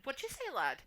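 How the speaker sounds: mimicking a Scouse accent; imitated Scouse accent. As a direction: tease with a put-on Scouse lilt. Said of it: "you just constantly".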